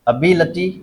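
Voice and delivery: "अबिलिटी" with बि stressed; stress demo. Shown as a demonstration. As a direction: lean on बि in "अबिलिटी", short लटी after it. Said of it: "क्या बोलते हैं इसको?". ("अबिलिटी" में बि पर ज़ोर)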